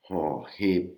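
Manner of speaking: Ho Hip breathy with a rising tone. Shown as a demonstration. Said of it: "une intonation qui monte".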